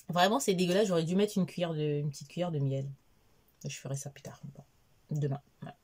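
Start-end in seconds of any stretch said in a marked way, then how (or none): 0.1-0.9 disgust said out loud. Real, not acted. Goûte l'infusion.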